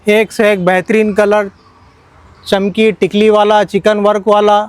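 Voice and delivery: loud hard-sell shouting; overeager teleshopping pitch. Acted. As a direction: call out the prices loud like a market hawker. Shopkeeper hawking cloth prices.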